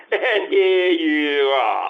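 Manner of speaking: slow words through a chuckle; laughing. Acted. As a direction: laugh it out, pleased with himself. Cookie ends story laughing.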